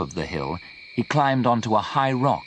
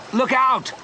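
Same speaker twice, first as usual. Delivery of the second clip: high, urgent cry of alarm; panicked shout to his friend in the river; shouted warning; 3 dB louder than usual. A narrator's reading. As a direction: yell a sudden warning across the water. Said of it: "Leon shouted".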